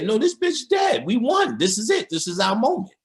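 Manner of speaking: high, shouted triumphant coroner; excited coroner shout. Retold or imitated. Coroner tells the mayor the witch is dead, shouting high. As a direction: shout it like you just won. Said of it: "he's telling the mayor".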